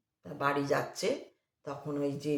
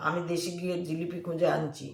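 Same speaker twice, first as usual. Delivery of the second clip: angry; 6 dB louder than usual. Retold or imitated. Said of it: "একজন খুব রেগে বলছে".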